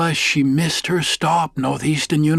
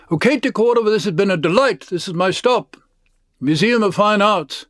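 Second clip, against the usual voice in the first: put-on lively older lady; 4 semitones higher than usual. Edith voiced in the story.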